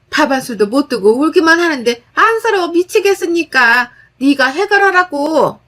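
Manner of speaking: high, loud berating on the phone; mother-in-law yelling at daughter-in-law over the phone, angry and loud; angry scolding mother-in-law. Acted. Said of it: "욕 한 바가지를".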